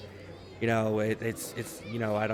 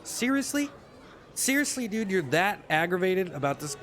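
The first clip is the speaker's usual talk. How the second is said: much higher, disbelieving seriously; incredulous; 5 semitones higher than usual. Real, not acted. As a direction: squeak out your disbelief. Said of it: "incredulous outburst".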